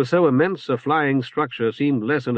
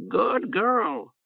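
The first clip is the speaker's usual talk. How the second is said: high croaking bird squawk; hoarse bird voice; 9 semitones higher than usual. Acted. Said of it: "Oreb confided".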